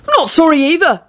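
high-pitched indignant yell, little extra volume. A narrator's reading. Culprit protesting to the boss, high yell. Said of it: "Neville yelled".

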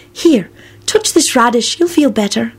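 slow, high, lightly soothing voice; consoling Luna. A narrator's reading. Luna offers Neville her radish, consolingly. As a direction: coax them kindly, drawn out. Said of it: "Luna said consolingly".

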